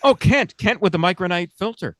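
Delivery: chipper 1950s ad. Retold or imitated. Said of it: "The taste of Kent".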